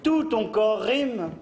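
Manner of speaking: slow, grand poetry recital; hammy stage actor. Acted. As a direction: declaim it like a ham actor. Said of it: "Poème".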